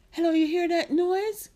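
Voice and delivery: high, loud appeal to strangers; urgent calling out. Acted. Marcia stopping people about the noise, urgent. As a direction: grab their attention urgently. Marcia stops passers-by to ask.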